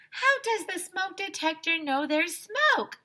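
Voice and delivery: put-on high, slow know-it-all girl; high, slow little girl's question; Andrea's voice. A narrator's reading. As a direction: ask it like the eager class pet. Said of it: "Andrea asked".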